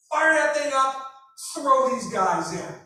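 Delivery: loud barked order from an angry king; king's order shouted. Retold or imitated. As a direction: roar it at the soldiers like a furious king. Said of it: "he tells the army".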